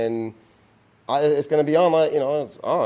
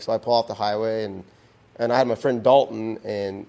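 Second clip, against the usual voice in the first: ordinary talk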